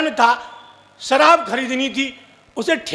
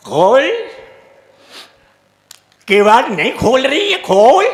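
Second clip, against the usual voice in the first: put-on drunk demand; 4 dB louder than usual. Drunk husband bangs on door.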